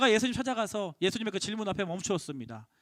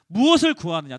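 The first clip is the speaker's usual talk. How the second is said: low, louder voice of Jesus asking; 6 semitones lower, 7 dB louder than usual. Acted. Preacher voicing Jesus asking Andrew, weighty. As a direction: ask it as Jesus, weighty and direct.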